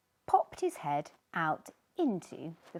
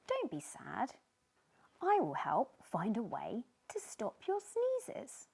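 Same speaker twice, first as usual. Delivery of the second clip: comforting; 3 semitones higher than usual. Acted. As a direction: gently soothe a sad friend. Tiny comforting Sneezy.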